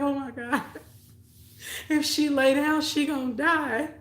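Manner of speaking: high, wailing mock sob; imitating a sister crying in panic. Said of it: "My sister started crying".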